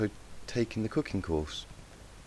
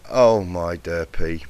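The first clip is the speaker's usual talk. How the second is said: slow, louder fond sigh of dismay; 9 dB louder, much slower than usual. Acted. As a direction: drag it out fondly. Teacher sees wrong muffins.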